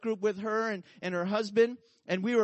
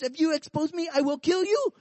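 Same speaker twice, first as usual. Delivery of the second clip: mock threat; 6 semitones higher than usual. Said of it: "he says".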